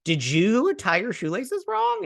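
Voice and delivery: high, drawn-out mock outrage; mock mad. Mocking the princess angry about everything, mock mad. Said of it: "she was mad about everything".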